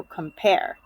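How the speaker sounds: "compare" slowly, with PARE stressed; light com, long PARE in "compare"; stress on second syllable. Shown as a demonstration. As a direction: lean on the end of "compare". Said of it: "not the first part".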